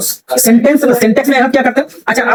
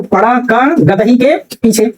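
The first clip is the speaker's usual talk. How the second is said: "का" set apart, "गदही" said as one word; group it "पड़ा का, गदही के पीछे"; break after का. Shown as a demonstration. Teacher rereads the donkey example, word break after "का". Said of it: "केवल और केवल मैंने चेंज किसमें किया".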